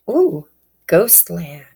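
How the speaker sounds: breathy whisper of the card name. Real, not acted. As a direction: whisper it like a secret. Reader reveals oracle card name.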